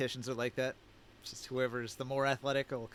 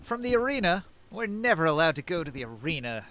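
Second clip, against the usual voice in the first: huffy; 4 dB louder than usual. Acted. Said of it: "they huff".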